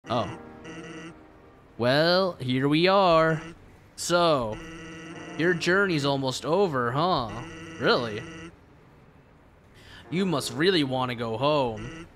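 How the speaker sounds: relaxed skeleton with a faint southern lilt; southern Sans. Acted. Skeleton gently questioning the human's journey, faint southern twang. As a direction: lean into a light southern twang, unhurried. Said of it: "Sans is slowly turning, uh, southern".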